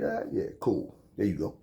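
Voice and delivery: soft mumbled reply. Retold or imitated. Himself answering the clerk, retold.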